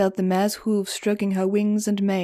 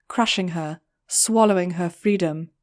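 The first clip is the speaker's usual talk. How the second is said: ordinary delivery, nothing marked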